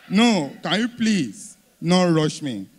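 drawn out and laughing; laughing, slowed plea. Shown as a demonstration. Comedian slowly begging the crowd not to rush him. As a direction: laugh through a slow plea. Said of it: "slowed, laughing repeat".

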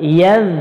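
ইয়াজ ending in a soft, lisped "dh"; soft consonant. Shown as a demonstration. Quran teacher showing the soft letter, ইয়াজ with a soft "dh" ending. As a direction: end ইয়াজ on a gentle voiced th, not a hard j. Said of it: "নরম".

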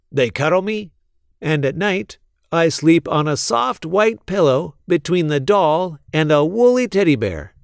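a bright little wind-up mouse, proud of being loved; Willy's voice. Acted. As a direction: toy mouse bragging sweetly. Willy the toy mouse speaks.

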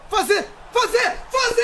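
high urgent yells; excited shouting. Real, not acted. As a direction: urge the shot loudly. Urging a shot.

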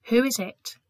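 voice behind gates. Acted. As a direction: call out from behind closed gates. Gatekeeper answers knock.

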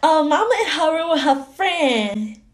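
put-on childlike, chatty explaining voice; little girl. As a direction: talk like a small child telling tales.

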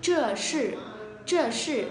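"zhe shi" with tongue curled up and mouth rounded; retroflex, rounded mouth. Shown as a demonstration. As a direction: curl the tongue for each long "zhe shi". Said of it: "đọc cong lưỡi lên và tròn miệng". (đọc "zhe shi" cong lưỡi, tròn miệng)

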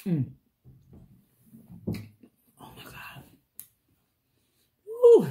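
talking with mouth full; muffled between bites; chewing corn. Real, not acted. Seen 0: Bites corn at -3, then chews with a full mouth through +6.0.

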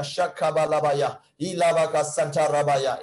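slow chanted tongues; speaking in tongues. Real, not acted. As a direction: chant the syllables slowly.

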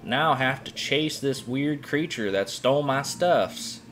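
a fretful minion scared of the boss; small goblin creature voice. Acted.

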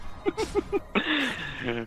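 high, soft burst of laughter. Real, not acted. Amused at a teammate's jab, laughing. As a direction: laugh lightly at the teasing.

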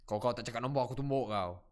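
put-on Indian-accented Malay; mock threat in an Indian Malay accent. Player jokingly threatens teammate over the number, Indian Malay accent. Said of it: "Oh, the Indian Melayu".

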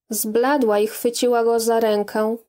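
ordinary delivery

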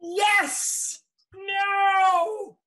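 high, loud cheers; gleeful shout. Acted. Frankie finds the cash behind the broom and whoops. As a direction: whoop with delight at the find. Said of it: "shouts with glee".

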